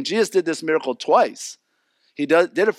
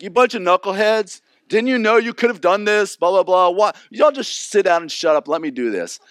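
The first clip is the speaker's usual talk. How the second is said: mock scolding; 4 semitones higher, 3 dB louder than usual. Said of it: "If it had been Gary, he'd be like".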